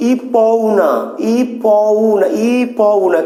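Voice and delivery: ই পউ said as separate drawn-out letters, then না; sounds spelt apart. Shown as a demonstration. Teacher showing students what we don't say, sounds separated. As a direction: pick apart ই, প, উ and reject it. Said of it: "আমরা যখন উচ্চারণ করছি".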